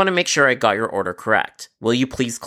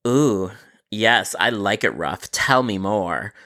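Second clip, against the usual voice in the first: creepy flirting; 3 semitones lower, slower than usual. Pretend. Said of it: "time to creep him out".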